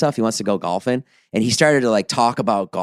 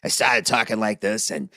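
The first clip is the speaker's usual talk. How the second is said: lower, softer manly voice; demoing a lower, quieter voice; 3 semitones lower, 6 dB quieter than usual. Shown as a demonstration. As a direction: show how he dropped his voice. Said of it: "I was lowering my voice".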